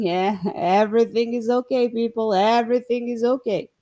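loud, dizzy reassurance to everyone; drugged-up cheerful announcement; woozy cheer. Retold or imitated. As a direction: announce it groggy but happy. High after surgery, reassuring.

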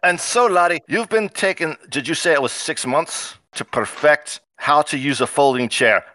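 dwarf quizzing in hammy Scottish; bad Scottish accent. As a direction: question the newcomer in mock Scottish. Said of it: "speaks in a bad Scottish accent".

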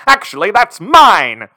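"Actually, that's mine!" claimed with triumph; proud reveal. Retold or imitated. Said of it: "Johnny can be like".

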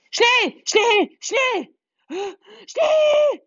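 high, loud urgent call. Acted. Little witch hurrying the children, high loud call. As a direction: shoo the children along, loud. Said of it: "ruft sie".

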